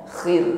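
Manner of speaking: "Khir" with a gentle throat rasp; "Khir" rasped lightly, not pressed; soft kha. Shown as a demonstration. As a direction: keep the kh of "Khir" unforced. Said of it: "namun lembut saja".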